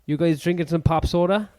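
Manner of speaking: put-on American dude voice; American accent. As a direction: play an American kid, cowabunga-style. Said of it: "How was my accent?".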